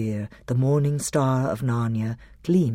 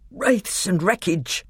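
high, slow, frightened gasp; faint gasp; 6 semitones higher than usual. A narrator's reading. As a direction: gasp it out with barely a voice. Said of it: "gasped Trumpkin in the ghost of a voice".

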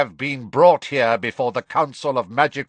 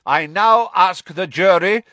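raised, high, forceful prosecuting voice; bellowed accusation; 9 semitones higher, 5 dB louder than usual. A narrator's reading. Crouch charges his own son before the jury, bellowed accusation. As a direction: keep bellowing the charges without yielding. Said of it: "bellowed Mister Crouch".

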